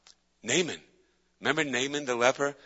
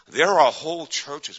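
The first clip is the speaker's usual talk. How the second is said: emphatic slow declaration; 4 semitones higher, 7 dB louder, slower than usual. Real, not acted. Preacher emphasis.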